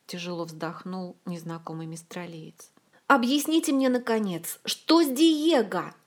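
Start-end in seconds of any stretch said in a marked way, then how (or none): 3.1-5.9 yelling. A narrator's reading. Olga yells at the friends to finally explain. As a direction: yell it out, losing patience. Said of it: "заорала Ольга".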